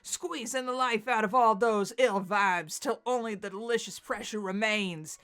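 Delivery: put-on Texan accent. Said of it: "he's kinda Texan".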